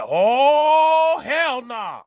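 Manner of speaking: high, loud "Oh" then a mock yelled "hell nah"; mock outraged shout. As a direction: blow up like the cranky old mayor. Mayor quoted refusing angrily.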